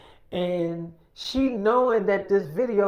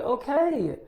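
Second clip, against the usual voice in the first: higher-pitched, drawn-out reply; exasperated compliance; 6 semitones higher than usual. Retold or imitated. Girl gives in to parent's order, exasperated. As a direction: mimic a put-upon agreement.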